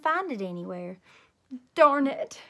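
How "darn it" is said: put-on loud, higher childish exclamation; frustrated outburst. A narrator's reading. Child who can't find her shoe, frustrated.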